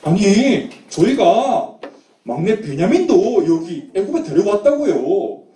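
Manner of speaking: acted, pleading denial of an accusation; indignant protest. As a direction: protest your innocence insistently. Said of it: "이렇게 막 항변했어요". (억울한 듯 항변하는 말투)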